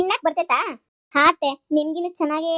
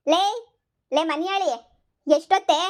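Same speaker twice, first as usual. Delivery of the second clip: calling out; 2 semitones higher than usual. Acted. Mother-in-law wakes daughter-in-law.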